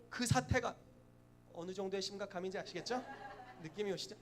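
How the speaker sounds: ordinary talk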